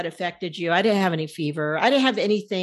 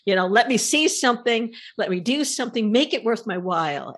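louder, higher demanding voice; demanding rant; 4 semitones higher, 3 dB louder than usual. Retold or imitated. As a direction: demand it from the sky. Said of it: "I said".

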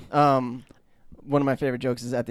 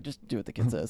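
quoting Chief Wiggum; 5 dB quieter than usual. Retold or imitated. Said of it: "He's like".

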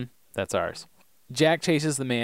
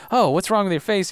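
higher, louder concerned doctor; imitating Jack; 8 semitones higher, 5 dB louder than usual. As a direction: play the pushy doctor, lightly. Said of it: "he's like".

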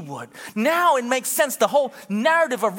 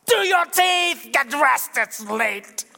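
mock yell; 3 semitones higher, much slower than usual. Mom yelling at kids the next morning. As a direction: snap at the kids to hurry.

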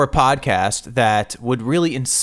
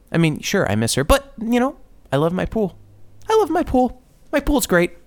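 mock happy; 10 semitones higher than usual. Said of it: "mocking the podcaster".

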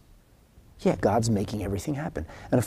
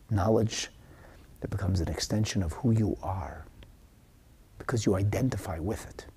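intimate whisper; 5 dB quieter than usual. Real, not acted. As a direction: drop to a soft breathy whisper. Intimate point about deep knowledge.

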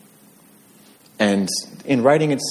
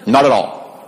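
dad's retort; 5 semitones higher, 5 dB louder than usual. Retold or imitated. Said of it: "and he'd get".

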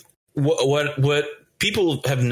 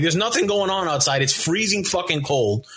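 mildly irritated retold rant, raised pitch; pissed off; 6 semitones higher than usual. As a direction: act out grumbling at a pointless errand. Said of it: "I'm already pissed off now".

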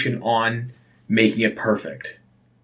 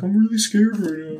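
scared text; 8 semitones higher than usual. Retold or imitated. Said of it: "I was like".

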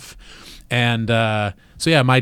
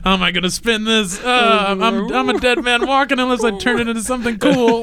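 put-on panicked kid; 10 semitones higher than usual. Voicing the kid's thoughts.

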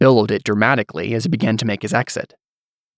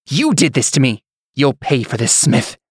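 angry; 3 semitones higher than usual. Acted. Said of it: "He turned on Antonius with fury".

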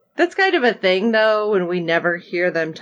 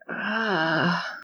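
soft, drawn-out uneasy "ah"; retold groan of worry; 7 dB quieter than usual. Reacting warily to her cheeriness.

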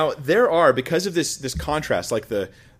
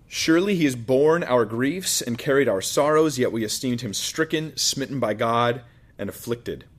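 scripture reading. Acted. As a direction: read it with weight. Reads next verse aloud.

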